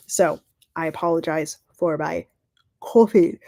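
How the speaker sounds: words stretched by a yawn; mid-yawn. Real, not acted. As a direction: talk through a yawn. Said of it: "excuse me again for the yawning".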